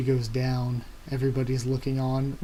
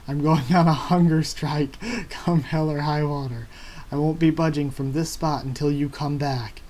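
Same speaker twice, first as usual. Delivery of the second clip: Luffy vowing to Sanji, loud and stubborn; defiant shout; 4 dB louder than usual. Acted. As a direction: bellow it, laughing once. Luffy shouting hunger strike.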